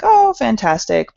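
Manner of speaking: mock admiration. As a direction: react to the cats with slow, put-on approval. Mock reaction to shelter cats.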